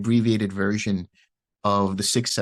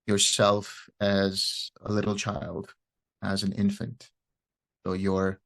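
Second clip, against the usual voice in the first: unhurried meditation guidance with long pauses; guided meditation. Real, not acted. Teacher guiding listeners through loving-kindness meditation, calm and unhurried. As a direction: ease listeners into relaxing, leaving space after each phrase.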